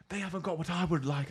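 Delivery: high imitation of a pompous bellow; mock bellow. Customer bellows back at the girl, hammed-up and high. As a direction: ham up the customer's indignant roar. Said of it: "he's bellowing".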